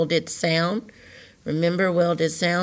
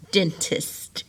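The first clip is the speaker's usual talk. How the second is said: whisper; 6 dB quieter than usual. Shown as a demonstration. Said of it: "teacher models word in whisper".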